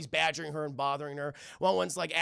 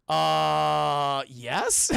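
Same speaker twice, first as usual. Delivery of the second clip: robot; 3 semitones lower, 6 dB louder than usual. Retold or imitated. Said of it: "he goes".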